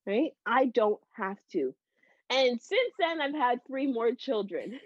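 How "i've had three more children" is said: laughing. Real, not acted. Laughs at her own news.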